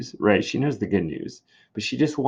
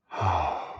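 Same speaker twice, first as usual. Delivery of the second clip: sigh; 3 semitones lower, 3 dB quieter than usual. Acted. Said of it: "she comes in and she's like".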